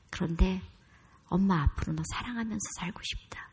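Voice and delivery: soft, near-whispered plea for forgiveness; hushed sincere apology. Retold or imitated. Mother kneeling before her son, asking forgiveness softly. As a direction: say sorry gently, almost in a whisper.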